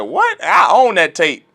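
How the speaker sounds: mock incredulous brother. A brother questioned about the laws, mock incredulous and high. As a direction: play the caught hypocrite, shocked and defensive. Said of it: "They're gonna be like".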